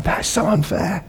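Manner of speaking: put-on high, drawn-out childish whine; whiny kid. Preacher imitating his kids, high childish whine. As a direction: whine it like a hard-done-by child. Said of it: "I see it with my kids".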